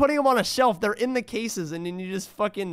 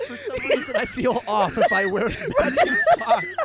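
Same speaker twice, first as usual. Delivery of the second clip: much higher, giggling through the words; laughing. Real, not acted. Streamer admitting his sock habit to chat, laughing. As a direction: laugh out the embarrassing confession.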